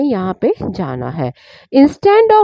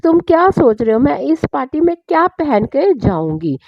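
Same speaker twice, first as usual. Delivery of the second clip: angry; 3 semitones higher than usual. Acted. Wife angrily asks husband what she could wear, cross. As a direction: throw it back at him crossly. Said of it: "बहुत ही गुस्से से".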